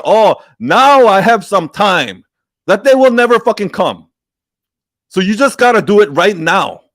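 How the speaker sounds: heated rant. Real, not acted. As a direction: really lay into the audience, fed up. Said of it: "I got just so heated there".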